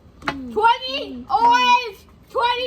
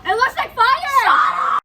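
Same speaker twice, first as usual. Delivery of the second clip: louder and slower, spelling it out; loud slow repeat; 5 semitones higher, 3 dB louder, much slower than usual. Real, not acted. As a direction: call it out slowly so they hear. Repeats because friend didn't hear.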